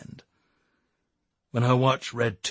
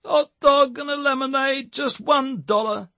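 defeated mutter; 13 semitones higher, 3 dB louder than usual. A narrator's reading. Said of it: "he muttered, defeated so soon".

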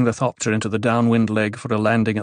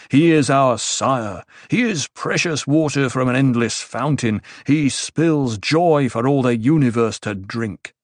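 mock panegyrist. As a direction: recite grand praise of an emperor. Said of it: "have you really listened to this panegyrist".

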